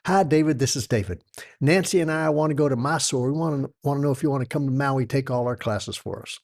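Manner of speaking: a friendly, rushed North Carolina twang. Retold or imitated. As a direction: imitate David Williams inviting you to Maui with a North Carolina twang. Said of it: "He's got that twang".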